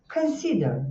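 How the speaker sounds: "consider" high on "si", then dropping; middle-syllable stress. Shown as a demonstration. Teacher models the pattern for students, middle-syllable stress. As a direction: lift "si" in "consider" and fall away. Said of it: "Tem tri-, três sílabas".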